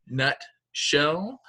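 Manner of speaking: nutshell said in two clear beats, nut and shell; syllable demo. Shown as a demonstration. Teacher showing second graders the syllables, clear demo. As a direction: sound out nutshell slowly for the class. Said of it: "touches your chin to your hand twice".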